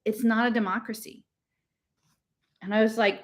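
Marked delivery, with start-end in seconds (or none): 0.0-1.2 gentle. Acted. Girl gently corrects her friend after the quarrel. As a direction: correct them kindly, without pushing. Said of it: "really gently".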